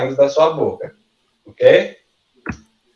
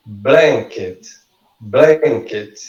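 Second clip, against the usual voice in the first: Blanket with a strong BLAN, falling after; first-syllable stress; much slower than usual. Shown as a demonstration. Teacher giving stress examples, Blanket stressed on BLAN. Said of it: "a sílaba mais forte".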